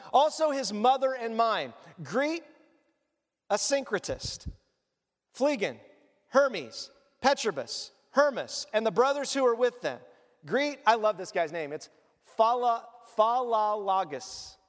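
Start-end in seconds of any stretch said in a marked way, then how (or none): 0.1-10.8 scripture reading. Acted. Reads scripture aloud.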